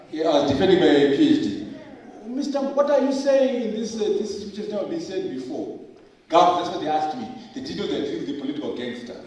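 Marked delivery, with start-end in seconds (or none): 2.3-5.8 challenging examiner. Retold or imitated. Acting out his viva examiners.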